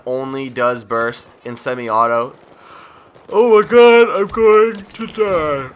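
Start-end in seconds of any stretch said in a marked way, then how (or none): 3.3-5.7 much higher and louder, slow mock wail; theatrical groaning wail; hammed-up despair. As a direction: overplay it like you're dying of tiredness. Dramatic while yawning.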